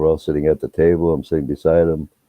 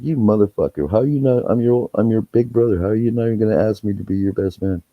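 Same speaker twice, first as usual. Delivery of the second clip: mock indignation; 6 semitones higher than usual. Mock indignation at groom, retold.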